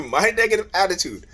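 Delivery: chuckling over the phrase; laughing repeat. Real, not acted. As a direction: laugh off the accusation. Repeats her words, laughing.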